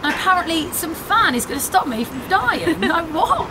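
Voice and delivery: high, frantic protest; panicked outrage. Real, not acted. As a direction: disbelief rising into panic. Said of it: "I've been duped".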